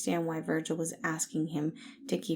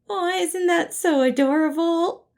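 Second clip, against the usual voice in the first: much higher and louder, gushing; gushing coo; 12 semitones higher, 11 dB louder than usual. Acted. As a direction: coo it like it's the cutest thing. Gushing over the cat's name.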